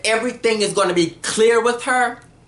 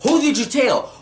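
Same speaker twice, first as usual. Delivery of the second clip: higher-pitched, pressing questions; heated interrogation; 5 semitones higher than usual. Retold or imitated. Recapper acts out woman grilling Jeff, heated and high. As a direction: imitate someone going at him hard. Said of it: "really going at Jeff".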